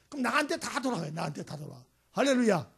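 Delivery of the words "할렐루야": loud ringing hallelujah; hallelujah shout. Real, not acted. Preacher rousing the congregation, loud hallelujah call. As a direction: call it out to the hall.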